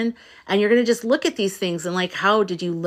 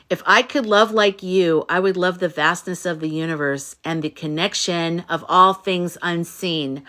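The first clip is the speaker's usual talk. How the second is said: tender reading. Retold or imitated. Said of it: "her A I told her".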